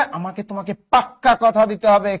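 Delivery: পাক্কা hit hard with a long doubled k; insist, leaning on the kk of পাক্কা; emphatic. Acted. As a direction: press hard on পাক্কা, holding the k. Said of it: "যদি জোর দিয়ে কয়".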